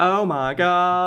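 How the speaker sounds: high, drawn-out mock gasp of shock; mock scream. Imitating a screaming YouTube thumbnail, exaggerated mock shock. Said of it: "the thumbnail screaming".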